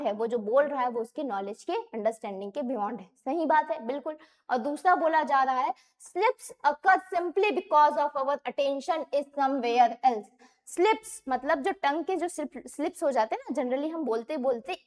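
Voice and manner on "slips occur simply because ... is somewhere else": slow, careful reading of the statement; slow question reading. Shown as a demonstration. Teacher slowly reading a test statement aloud. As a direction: spell it out for the class.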